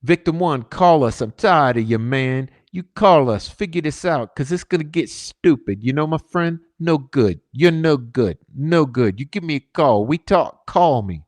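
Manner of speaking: a mock Italian tough guy leaning on the caller; Italian accent. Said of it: "Yeah, using an Italian accent".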